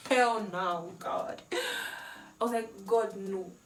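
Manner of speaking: loud horrified cry of refusal; loud protest. Retold or imitated. Soaked by the camp lady, loud shocked refusal. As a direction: yell no as cold water hits you. Cold water poured on her.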